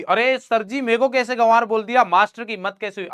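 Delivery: lightly hammed-up outrage; mock indignant student. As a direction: play an affronted student complaining to the teacher. Voicing an offended student's complaint.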